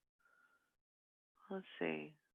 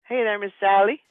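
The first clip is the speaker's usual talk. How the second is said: calling out; 3 semitones higher, 9 dB louder than usual. Real, not acted. Greeting a viewer in chat.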